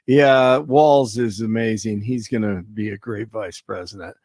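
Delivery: deadpan sarcastic praise. Acted. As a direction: say it dry, not meaning a word. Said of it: "Little sarcasm in my voice there".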